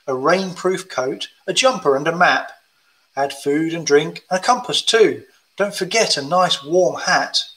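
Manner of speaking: gentle rhyming storybook read; reading to children. Acted. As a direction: read it like a bedtime picture book. Reads hill walking rhyme.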